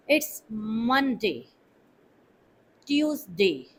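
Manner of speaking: days of the week said slowly and clearly, Monday as /mʌnde/; teacher models each day with a clear falling tune, Wednesday as wens-day; model pronunciation. Shown as a demonstration. Teacher demonstrates the days of the week to learners, careful and clear. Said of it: "correct pronunciation of the days".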